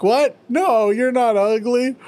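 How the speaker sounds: hammed-up comforting; consoling dogs. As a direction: coo like guilty henchmen. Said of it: "They're like".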